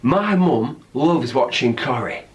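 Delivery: slow, northern English reading; lightly done northern accent. Shown as a demonstration. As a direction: try out a northern voice. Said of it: "try and do this in a northern accent".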